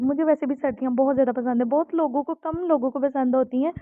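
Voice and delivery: rushed, quick words; talking fast. Real, not acted. Vlogger chatting to viewers about loving winter, talking fast. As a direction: rattle it off in a hurry. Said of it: "मैं इतनी speed के साथ बोल रही हूँ".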